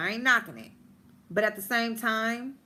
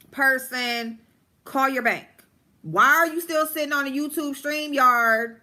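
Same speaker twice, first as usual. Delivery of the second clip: raised, frustrated yelling at the host; half-shouted exasperation, higher and louder; exasperated yelling; 5 semitones higher, 3 dB louder than usual. Retold or imitated. Yelling at the host to call the bank. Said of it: "And I'm like".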